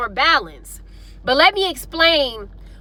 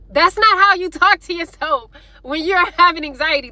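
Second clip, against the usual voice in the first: amused laughing; 3 semitones higher than usual. Real, not acted. Laughs at the mistaken self-talk example.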